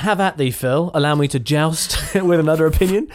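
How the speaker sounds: mock knight challenging a foe; stagey fake archaic declaiming. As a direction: ham up an old-time knight. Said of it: "Why are you being a knight?".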